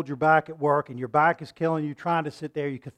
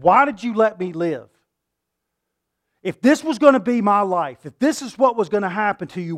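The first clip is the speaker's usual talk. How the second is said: anguished plea; 4 dB louder than usual. Acted. Voicing Job's lament to God.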